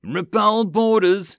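high, loud, slow shout; crying out. Acted. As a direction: bellow the order. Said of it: "Naboo cried again".

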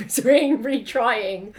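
laughing. Real, not acted.

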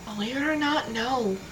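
soft, hushed admission; quietly confessing, whispery tone. Real, not acted. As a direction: say it under your breath, almost whispering. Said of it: "in a very whispery tone".

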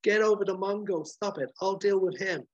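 high, loud hammed-up hero voice; mock action-hero rallying call; heroic command. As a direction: bark orders like a space hero. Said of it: "and he says".

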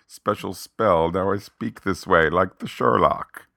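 mock British accent, slow and declaimed; hammed-up British sorcerer, drawn out; Benedict Cumberbatch. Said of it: "speaking with a British accent".

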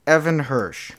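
big capital-letters delivery; all-caps emphasis. Shown as a demonstration. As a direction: proclaim it as if in capitals. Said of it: "I'm gonna do all caps".

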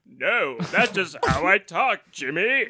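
lightly imitated singer's talk-show voice; drawn-out mock answer in a put-on voice. Singer defending his voice to a talk-show host, mock impression. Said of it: "how do you talk like that".

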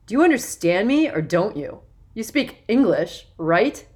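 put-on loud, impatient snap at the boys; snapping. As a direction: bark it at them, annoyed. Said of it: "he snapped".

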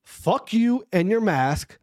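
each word spaced out slowly; slow deliberate. Shown as a demonstration. Telling mask scolds off, slow deliberate. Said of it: "I repeat".

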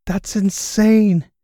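loud, slow disbelieving cry; excited shout. Acted. Host shouting at the insane donation, loud excited cry. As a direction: blurt it out, thrilled. Reacting to the huge money.

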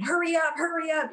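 high-pitched retold order; imitated yelling. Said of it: "the black hats are yelling at us".

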